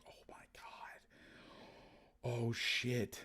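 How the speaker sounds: hushed alarmed whisper; retold whisper. Alarmed on spotting French family.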